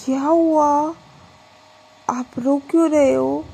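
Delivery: put-on drunk delight. Drunk Pragya finds her wife.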